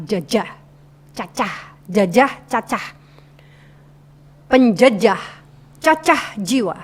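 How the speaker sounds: "Jajah, cacah" sounded out word by word; clear articulation. Shown as a demonstration. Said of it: "artikulasinya harus jelas". (lafalkan "Jajah" dan "Cacah" dengan jelas)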